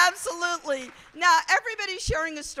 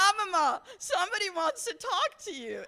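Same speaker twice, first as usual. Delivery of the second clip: higher-pitched calling voice of a daughter; calling out to grandma; 6 semitones higher than usual. Retold or imitated. Granddaughter calling grandma from the bathroom door, higher-pitched call. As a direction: call through the door, a little urgent.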